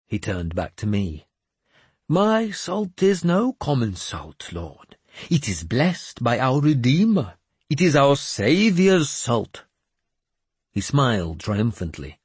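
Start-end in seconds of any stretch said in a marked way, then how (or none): 2.1-9.6 put-on high, slow, grandly pious old madman; a cracked holy man delivering God's message; raised, slow prophet voice; mad bishop voice. Jeremias sells holy salt.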